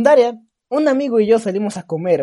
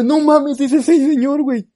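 higher, louder startled alarm; alarmed exclaim; 7 semitones higher, 7 dB louder than usual. Retold or imitated. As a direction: gasp it out in fright. Spotting the stranger again.

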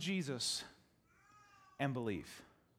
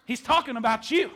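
teasing mama; 5 semitones higher, 9 dB louder than usual. Retold or imitated. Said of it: "They're like".

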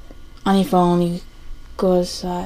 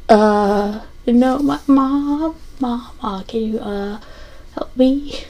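panicked plea; 5 semitones higher than usual. Retold or imitated. Retold panicked call to mom.

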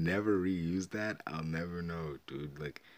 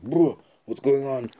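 high, loud mock confusion; startled, bewildered blurt; acted startled waking; 8 semitones higher, 12 dB louder than usual. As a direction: imitate someone jolted awake. Acting him waking up confused.

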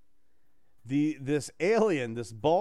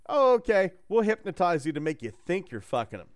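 lightly voiced alien; 3 semitones higher, 3 dB louder than usual. Voicing the bald alien.

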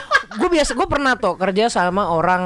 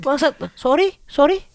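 higher, questioning apology to a caller; baffled asking; 4 semitones higher, slower than usual. Acted. Baffled worker to Hong Kong counterpart on a call, puzzled asking. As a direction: ask it as if you caught nothing.

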